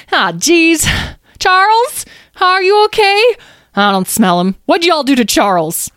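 high, loud, squeaky panic; frantic mouse. Acted. Mouse hunts for missing Charles, frantic. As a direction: fret loudly in a little mouse voice.

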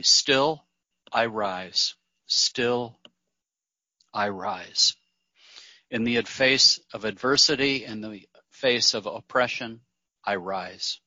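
measured recital with long pauses; poem recitation. Acted. Speaker quoting Maya Angelou to meditation group, measured poem recitation. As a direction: let each phrase fall and settle into silence.

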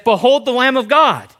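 high, loud proclamation; proclaiming. Acted. John the Baptist proclaiming loudly to the people. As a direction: announce it to the crowd.

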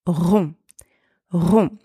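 "rond" with French R and nasal vowel, silent final consonants; "rond" modelled with a throaty French R; French R syllable. Shown as a demonstration. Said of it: "With the French R".

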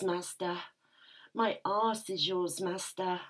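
intimate, aroused first-person storytelling; breathless submissive narrator lost in the moment; breathy erotic narration. Acted. Narrator reliving the scene for listeners, aroused and intimate.

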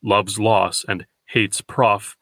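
"love's loss and hate's prof" slowly, weight on every word; "love's loss and hate's prof" in slow, heavy beats; heavy spondee stress. Shown as a demonstration. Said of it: "mistakenly read two heavy feet".

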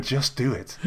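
lightly voiced sultry ad whisper; a hint of a seductive advert voice; sexy woman voice. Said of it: "in a sexy woman voice".

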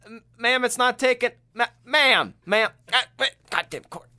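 put-on high, loud, pleading old man, getting frantic; mock grandpa losing it at the booth; flustered grandpa. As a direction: beg the toll lady over and over, rising panic. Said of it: "he's like".

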